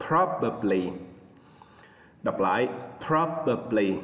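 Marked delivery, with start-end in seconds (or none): 0.1-0.9 probably, with PROB stressed; stress on first syllable. Shown as a demonstration. Teacher models probably for students, stress on PROB. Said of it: "nhấn âm đầu tiên nha". 3.1-3.9 probably, slowly, PROB stressed; stress on first syllable. Shown as a demonstration. Teacher repeats probably slowly, stress on PROB. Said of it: "nhấn âm đầu tiên nha".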